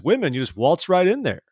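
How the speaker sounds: lightly mocking, breezy paraphrase; imitated flippant tone. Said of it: "he's kind of flippant about it".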